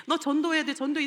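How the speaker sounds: high, loud nagging order; mock demand to go preach; mock pushy command. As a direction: bark it like a pushy boss. God pushing them to evangelize.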